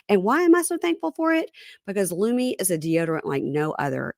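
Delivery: lively scripted sponsor pitch; podcast ad read. Acted. Host pitches a deodorant to listeners, upbeat ad read. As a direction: sell it chattily, with pitch swooping on key phrases.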